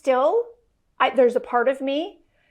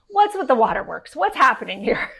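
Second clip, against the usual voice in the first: louder, startled disbelief; baffled; 5 dB louder than usual. Retold or imitated. Wife seeing husband cry for the first time, startled. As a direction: react as if caught off guard by tears.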